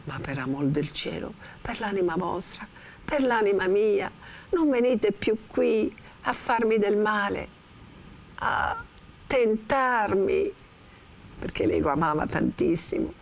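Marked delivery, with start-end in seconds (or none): 0.1-10.5 a hint of an anguished young woman begging; Lucia pleading. Teacher reads Lucia's plea.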